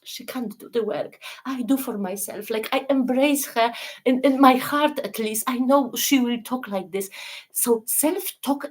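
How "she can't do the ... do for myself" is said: compassionate. Pretend. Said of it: "look down like with this compassion".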